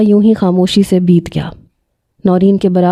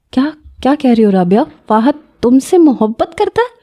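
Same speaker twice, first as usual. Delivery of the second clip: can't believe what she's hearing; disbelief; 4 semitones higher than usual. Acted. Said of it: "Noreen کو جیسے یقین نہیں آیا". (حیرانی اور بے یقینی سے)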